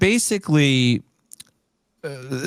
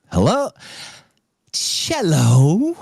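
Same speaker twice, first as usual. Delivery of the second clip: much higher, chirpy phone greeting; mock phone answer; 7 semitones higher, much slower than usual. Answering the casino's call, mock cheerful high greeting.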